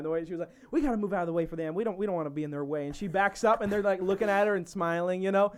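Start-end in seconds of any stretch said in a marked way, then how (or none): 0.7-2.9 quick southern mom imitation; southern accent. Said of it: "it was very southern".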